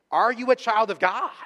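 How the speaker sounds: high, loud challenge to the congregation; booming question. Acted. Preacher voicing Romans asking the church, loud rising question. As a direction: ring it out as a direct challenge.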